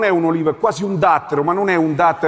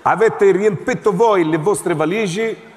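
slow repeat. Acted. Officer repeats.

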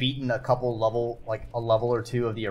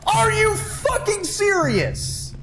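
disbelieving outburst; 4 dB louder, slower than usual. Real, not acted. Reacting to an in-game setback.

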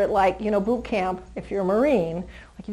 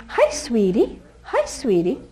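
whispered greeting; slower than usual. Real, not acted. Trainer greeting a shy puppy in a whisper.

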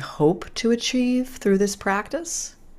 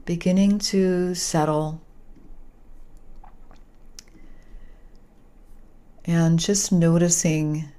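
calm guiding voice with long pauses; unhurried yoga nidra guidance, phrase by phrase; guided meditation. Real, not acted. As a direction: ease listeners into relaxation, leaving space between phrases. Leads guided relaxation after introduction.

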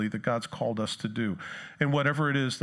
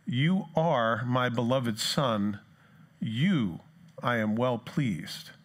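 very slow, measured scripture quote; voice from heaven; much slower than usual. Retold or imitated. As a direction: read it as a solemn pronouncement, drawn out. Reads God's voice from heaven.

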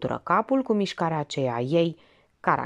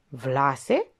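surprised question; 4 semitones lower than usual. Acted. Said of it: "se miră Minerva".

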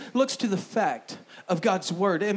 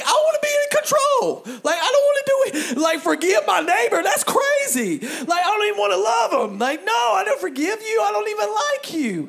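stubborn believer voiced; 12 semitones higher, 6 dB louder than usual. Voicing a stubborn believer's thoughts.

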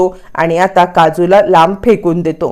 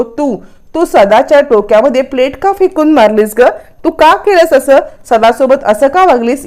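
higher-pitched, mildly cross questioning; retold anger; 5 semitones higher than usual. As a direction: demand an explanation, with a touch of acted indignation. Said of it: "तो खूप चिडलेला असतो". (थोड्या चढ्या स्वरात, रागाची सौम्य नक्कल)

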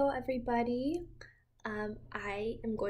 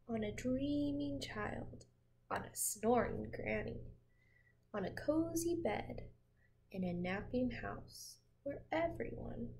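put-on reading to children. A narrator's reading. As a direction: lull a child with a gentle read-aloud. Reading picture book to child.

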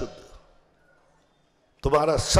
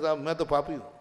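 humble admission. Acted. Devotee answering his challengers, humble. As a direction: drop the volume and concede meekly.

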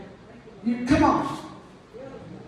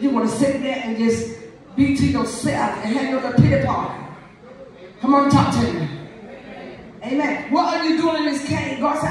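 higher, fervent preacher calling out; preaching at full force; 3 semitones higher than usual. Acted. Preacher rousing the congregation about the cave, fervent. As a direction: preach it up to the pews.

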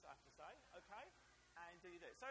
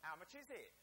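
Essex accent; 4 dB louder than usual. Shown as a demonstration. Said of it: "here's what it is".

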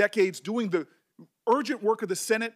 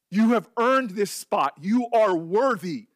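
forceful affirmation; 5 dB louder, slower than usual. Real, not acted. Affirming the nominee.

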